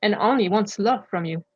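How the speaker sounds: measured recitation with clear pauses between phrases; deliberate spoken-word delivery, line by line; articulate poem reading. Real, not acted. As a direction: read your own poem aloud, carefully articulated. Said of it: "articulate well and speak loud".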